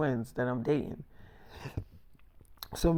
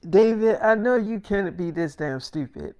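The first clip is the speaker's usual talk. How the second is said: exasperated yell; 5 semitones higher, 5 dB louder than usual. Retold or imitated. Girlfriend scolding him on phone.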